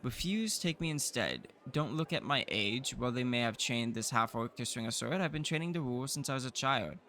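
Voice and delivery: lightly voiced confident young heir; young noble voice. Offering himself as emissary, a lightly voiced confident young heir. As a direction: pitch yourself as an eager secret noble.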